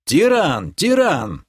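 высокий отрывистый оклик; позови питомца через луг; зовёт зверя. Acted. Герой подзывает зверя издали. (громкий зов, повышенным голосом)

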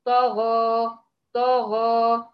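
طغى said loud with flat lips; طغى with heavy ط and غ, no rounding; correct demo. Shown as a demonstration. Teacher modelling the finger-on-lips check. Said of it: "تضعي الصباع كده على الشفايف وتبدأي تقولي".

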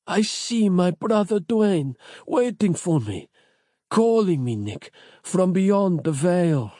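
slow, high, faraway voice; fading dying voice. A narrator's reading. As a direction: drift off as if seeing the beyond. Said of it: "weaker and quieter as each second".

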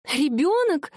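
high, rising disbelief at the news; hardly daring to believe it; amazed question. A narrator's reading. Wife realises pregnancy. (жена изумлённо спрашивает мужа, высоко)

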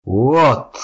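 high loud shout. Acted. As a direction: yell the rune word. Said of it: "прокричал Таблеткин".

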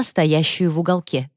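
ordinary delivery, nothing marked

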